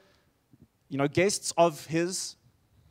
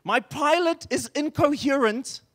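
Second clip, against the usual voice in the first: imitated alarm, pitched well up; mildly panicked radio call, retold; not calm; 6 semitones higher than usual. Passenger radioing ground control in an emergency, high and un-calm. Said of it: "I'm sure not in a calm voice".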